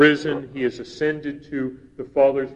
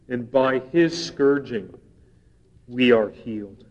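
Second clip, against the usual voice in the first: measured, solemn Bible reading; scripture reading. Acted. Reads Isaiah scripture aloud.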